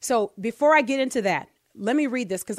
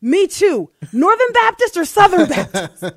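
high, loud, laughing while reading; can't hold back the giggles; laughing through the line; 8 semitones higher, 10 dB louder than usual. A narrator's reading. Voicing second man, laughing through.

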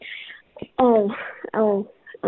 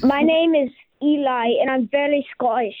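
an attempted Scottish accent. Shown as a demonstration. Young caller showing the radio hosts his Scottish accent. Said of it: "with a Scottish accent".

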